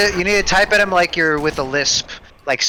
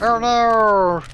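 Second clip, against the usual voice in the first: mock panic; 5 semitones higher, much slower than usual. Mock panic at bad guys.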